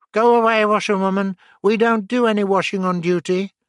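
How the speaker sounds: loud barked dismissal; gruff guards. Retold or imitated. Guards shooing away the disguised Mole, loud and dismissive. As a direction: shoo off the washerwoman. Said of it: "They said".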